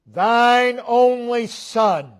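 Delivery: "Thine only son" high, loud and drawn out; strong emphasis. Shown as a demonstration. Preacher quoting God's command for emphasis, "Thine only son" slow and ringing. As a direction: slowly hammer every word of "Thine only son", pitched high. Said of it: "it's all for emphasis".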